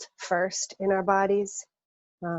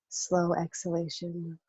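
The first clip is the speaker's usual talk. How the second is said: calm, unhurried guidance with long pauses; guided meditation. Acted. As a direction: lead a body scan, leaving room to breathe. Leads a guided body scan.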